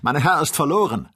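loud, high cry of despair; alarmed cry. A narrator's reading. Joe fearing for his master, crying out. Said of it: "rief Joe aus".

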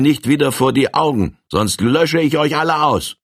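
a firm giant sending the gang away; commanding giant. Acted. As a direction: dismiss them with cold command.

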